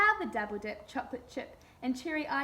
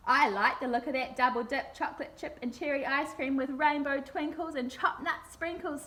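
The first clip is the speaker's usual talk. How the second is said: lightly voiced tiger snarl; a hint of a growling tiger. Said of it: "snarled the tiger".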